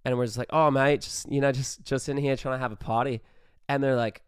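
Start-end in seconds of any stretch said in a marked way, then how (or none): 0.5-3.2 a light put-on Australian accent, casual; breezy fake Aussie, a bit louder; bad Australian accent. Talking to the frat guys at the gate, light Australian accent. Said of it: "with our Australian accents".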